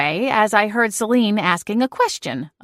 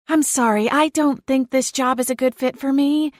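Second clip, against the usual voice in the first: flustered exclaim; 6 semitones higher than usual. Acted. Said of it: "she exclaimed".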